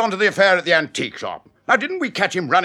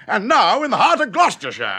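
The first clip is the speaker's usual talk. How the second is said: nervous laugh. Acted.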